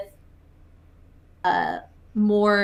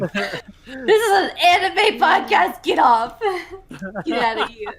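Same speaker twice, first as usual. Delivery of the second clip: laughing, playfully throwing someone out; half-laughing fake indignation; laughing mock outrage; 7 semitones higher, 4 dB louder than usual. Jokingly kicking cohost off.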